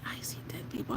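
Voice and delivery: whispered line; imitating a whisper. Fan quoting a halftime show in a whisper. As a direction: breathe it out like a rapper. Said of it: "when he was like".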